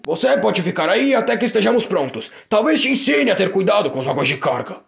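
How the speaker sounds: um toque de repreensão de chefe; leve chefe severo. Acted. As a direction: fala firme mas contida. (chefe repreende Percy, só um pouco severo)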